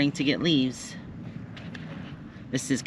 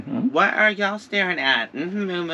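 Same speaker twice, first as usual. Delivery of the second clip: high sing-song pet voice; pet talk; 6 semitones higher than usual. Real, not acted. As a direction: coax the animals playfully. Talking to animals.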